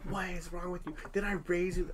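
high-pitched exasperated parent, re-enacted without real tears; retold tearful yelling. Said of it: "I'm crying as I'm yelling at her".

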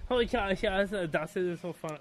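attempted German accent. Band member humouring fans, in a German accent. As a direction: put on a light German accent. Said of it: "That's pretty good accent".

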